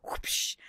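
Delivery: whispered catchphrase. Retold or imitated. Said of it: "some YouTubers".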